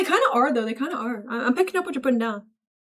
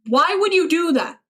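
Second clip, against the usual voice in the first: higher, appalled question; 5 semitones higher, 4 dB louder than usual. Pretend. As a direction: ask it in mock outrage. Shocked reply to chat message.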